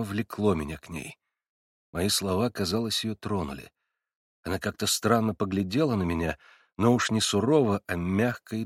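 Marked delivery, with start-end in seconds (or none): none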